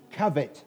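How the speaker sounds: "covet" with a clear final t, kʌvɪt; careful pronunciation. Shown as a demonstration. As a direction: stress the first syllable of "covet", end on a crisp t. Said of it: "not cover".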